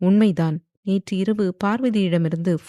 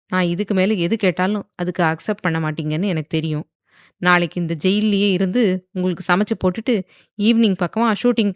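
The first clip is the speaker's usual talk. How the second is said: irritated; 3 dB louder than usual. Acted. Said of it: "என்று எரிச்சலாக கூறினாள்".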